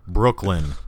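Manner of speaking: Brooklyn accent on one word. Shown as a demonstration. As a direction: say it like a New Yorker, Brooklyn accent. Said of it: "That's my Brooklyn accent".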